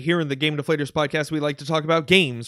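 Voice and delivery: breathless, panting between phrases; out of breath. Real, not acted. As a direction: talk while still catching your breath. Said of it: "Sound like you're out of breath there".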